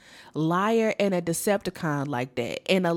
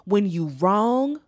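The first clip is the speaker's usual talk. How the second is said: emotional; 4 dB louder, slower than usual. Real, not acted. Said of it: "Why am I getting emotional?".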